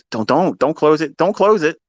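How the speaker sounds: anxious urging. Retold or imitated. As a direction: beg him not to close the trade. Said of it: "I'm like".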